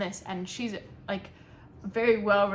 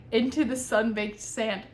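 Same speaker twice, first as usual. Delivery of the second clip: mock dramatic reading; 5 dB louder than usual. Shown as a demonstration. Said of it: "I shouldn't laugh".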